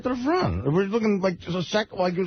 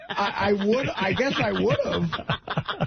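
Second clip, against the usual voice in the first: laughing; 2 semitones higher, much slower than usual. Real, not acted. Admitting the near fall amid laughter.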